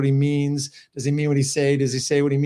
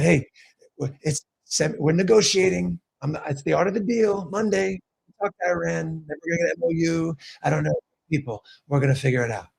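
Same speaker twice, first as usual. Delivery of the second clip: Trump impression. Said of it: "I'm getting better on my Trump impersonation".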